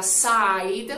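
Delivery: sighed said with a long "ai" vowel, as a wrong example; wrong pronunciation. Shown as a demonstration. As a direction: say sighed with the "ai" glide, marked as wrong. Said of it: "la pronunciación correcta de esta palabra no sería".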